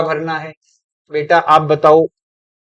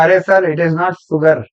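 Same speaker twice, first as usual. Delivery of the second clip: mock know-it-all pupil; much slower than usual. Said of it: "बच्चा मुझे ठीक करने लग गया".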